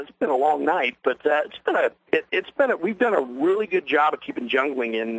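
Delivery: losing his voice, hoarse and worn. Real, not acted. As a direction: talk through a hoarse, tired throat. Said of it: "I'm losing my voice".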